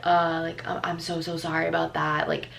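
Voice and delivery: sheepish, trailing apology; boy's apology. Retold or imitated. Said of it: "and he's like".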